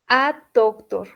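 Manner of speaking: "a doctor" said slowly, as "a doc-tor"; teacher says "a doctor" with care; slow English model. Shown as a demonstration. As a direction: model "a doctor" for students to copy.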